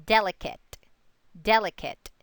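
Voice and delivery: "delicate" as DEL-i-cate, first syllable strong; stress on first syllable. Shown as a demonstration. Teacher models the example word, "delicate" accented three syllables from the end. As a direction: hit DEL in "delicate", light last two syllables. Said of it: "accent usually falls on that third syllable".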